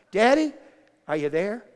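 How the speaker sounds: put-on high, loud little-girl call; little girl shouting. Little girl on a slide calling to daddy, high loud shout. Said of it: "loudest, littlest voice".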